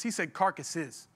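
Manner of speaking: "carcasses" slow, low and soft, each syllable drawn out; stress on carcasses. Shown as a demonstration. Preacher correcting carcass to carcasses, slow and low. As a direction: draw out "carcasses" slowly and quietly. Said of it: "he didn't say carcass".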